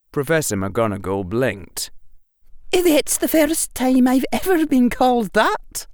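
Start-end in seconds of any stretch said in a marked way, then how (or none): 2.7-5.9 higher, louder wry teacher; deadpan amusement; dryly amused witch. A narrator's reading. McGonagall, dry amusement.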